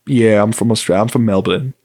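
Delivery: lightly put-on Australian accent; casual, amateur Australian accent. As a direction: play along as a would-be Melburnian with an Australian accent. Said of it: "I just played along with it".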